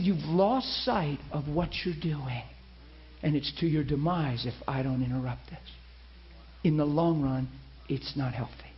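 low and grave, spacing each phrase out; fatherly. Retold or imitated. God interrupting the preacher's fast, gently fatherly. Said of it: "started to father me".

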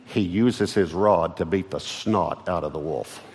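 a light Texan drawl, slowed. Shown as a demonstration. Pastor retells it in Texan for emphasis, lightly Texan. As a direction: say it the Texan way, slowly. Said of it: "Let me say it in Texan".

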